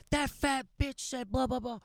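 high, slow, drawn-out mocking whine; mock whiny crybaby. Guy mimicking the kid's insult before the coach, mock whiny. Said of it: "He was bitching about it".

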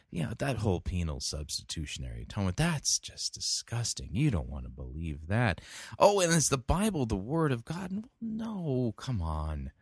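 mock-dismissive pastor, pitch swinging; doubting emergent pastor. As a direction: scoff lightly in a sceptic's role. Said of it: "same thing we're hearing from emergent pastors".

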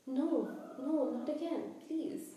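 high, frightened begging; whimpering plea. Acted. Quirrell begging someone threatening him, whimpering. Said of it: "heard somebody whimpering".

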